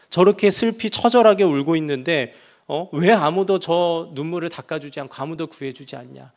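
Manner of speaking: put-on man crying out to God over his beaten child self, anguished loud protest. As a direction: cry out to heaven at the injustice. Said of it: "막 울부짖었는데".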